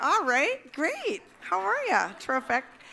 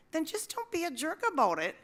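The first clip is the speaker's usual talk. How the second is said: plain; 7 semitones higher than usual. Retold or imitated. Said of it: "if the best place we could get was".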